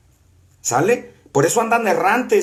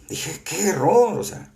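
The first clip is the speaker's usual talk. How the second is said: breathy whisper of disbelief; whispered aside. Real, not acted. Preacher recalls hearing the pastor, whispering his dismay. Private shocked reaction to pastor.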